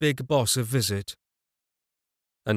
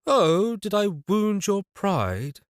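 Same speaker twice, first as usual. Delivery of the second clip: high, slow, mocking laugh; laughing taunt; 8 semitones higher, slower than usual. A narrator's reading. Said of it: "laughed the stranger".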